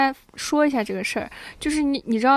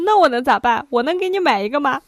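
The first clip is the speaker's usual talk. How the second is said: exasperated dad; 2 semitones higher, 5 dB louder than usual. Retold or imitated. Retelling dad's exasperated comeback.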